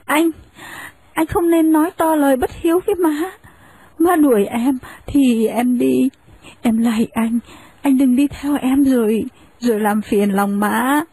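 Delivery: put-on young wife respectfully standing her ground; humble young wife. Wife restrains husband.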